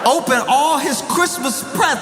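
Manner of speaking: high-pitched comic disbelief; incredulous. Real, not acted. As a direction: repeat it as if it's unbelievable, pitch soaring. Repeats it in disbelief.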